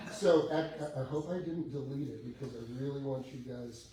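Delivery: normal talking voice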